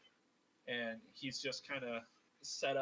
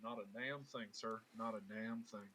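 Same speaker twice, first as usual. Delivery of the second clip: deadpan denial; 3 semitones lower, 5 dB quieter than usual. Acted. Abel's deadpan denial to Alabaster.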